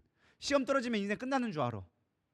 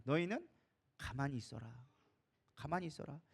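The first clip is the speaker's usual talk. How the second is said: hushed command; 6 semitones lower, 10 dB quieter than usual. Acted.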